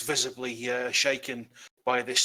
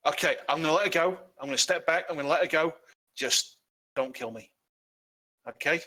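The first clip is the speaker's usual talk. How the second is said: higher, hurried giving in; panicked surrender; 4 semitones higher than usual. Acted. Cornered halfling gives up to the party, higher and panicky. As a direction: back down fast, scared.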